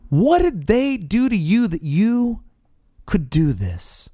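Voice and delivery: lightly voiced Moses, searching; gentle, searching Moses. Moses questioning Aaron about the sin, lightly voiced and searching. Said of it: "did you notice how Moses addressed them".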